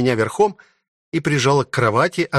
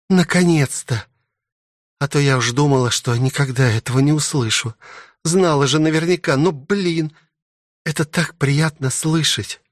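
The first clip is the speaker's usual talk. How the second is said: higher, gladdened princess voice; relieved princess; 4 semitones higher than usual. Acted. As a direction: gush with relief at the confession.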